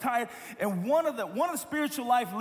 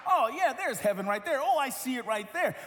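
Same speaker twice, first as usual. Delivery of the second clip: higher, brighter, eager voice; mock eager reader; 4 semitones higher than usual. Preacher imitating Christians reading the Old Testament, mock eager. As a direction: play the Christian spotting heaven everywhere. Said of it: "we think".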